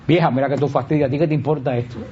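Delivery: curt put-down of Vieja; rude, dismissive. Shown as a demonstration. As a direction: grumble it like an annoyed son. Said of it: "que decir".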